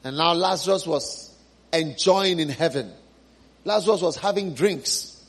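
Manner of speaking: lounge back, enjoying drinks in heaven; relaxed Lazarus. Acted. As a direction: Lazarus savoring heaven, lazily content.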